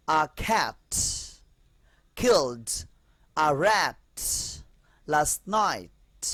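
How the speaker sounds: "killed" with a breathy aspirated k, each word set apart slowly; teacher spells out "A cat killed a rat last night" word by word, aspirating the k; slow aspirated demo. Shown as a demonstration. Teacher showing the class the aspirated k, slow and deliberate. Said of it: "clear?".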